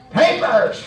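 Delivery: one clipped word, flat and falling; curt cop command. Retold or imitated. Police officer demanding papers at the car window, curt. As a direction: bark it like a stern cop. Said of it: "and he said".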